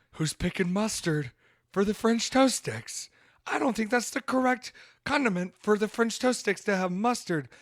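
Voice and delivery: can't believe the mustard offer; incredulous. Retold or imitated. Incredulous at mustard on French toast.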